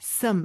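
"some" said as "seum", closer to an 으 vowel; reduced vowel. Shown as a demonstration. Teacher echoing fast speech, reduced "some". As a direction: shrink the vowel of "some" toward "eu". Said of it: "으 발음이 조금 더 가까워요".

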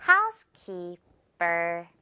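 housekeeper drawn out slowly, per split off as a tight ber; slow, low housekeeper with a light final syllable; tense unaspirated p. Shown as a demonstration. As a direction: stretch housekeeper and end on an airless p. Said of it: "된 소리".

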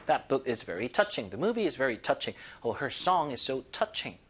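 very slow, every word laid out; slow example read. Shown as a demonstration. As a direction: read it slowly for students to copy. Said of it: "slow example sentences". (천천히 또박또박 읽는 예문)

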